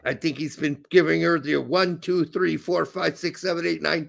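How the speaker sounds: put-on comic German accent; comic German-accented English. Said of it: "you doing the German accent would be great".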